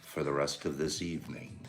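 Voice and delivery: low, slow movie-cowboy host; John Wayne. Acted. Announcing to viewers who hosts the show, low slow cowboy impression. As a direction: drop it deep and slow, with long pauses between phrases. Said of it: "I'm gonna do John Wayne".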